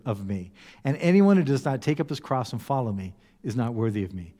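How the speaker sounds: measured, earnest Bible reading; scripture reading. Acted. Pastor to congregation, reading scripture solemnly. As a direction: read the words of Jesus with weight. Pastor reads Jesus' words aloud.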